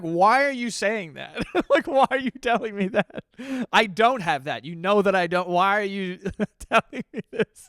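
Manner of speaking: laughing mock reply. Acts out a baffled reply.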